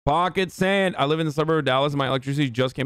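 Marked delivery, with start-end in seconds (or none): 0.1-1.0 lightly put-on Texan accent; brief mock Southern exclamation; Dale Gribble. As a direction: call it out as a Southern cartoon catchphrase. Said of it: "a Dale Gribble accent".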